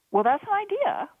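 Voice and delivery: high, fast, quick reply. A narrator's reading. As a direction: jump in quickly. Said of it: "Billy replied quickly".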